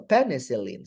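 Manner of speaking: penicillin, stress on the second syllable. Shown as a demonstration. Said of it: "The stress should be placed on the ... second syllable".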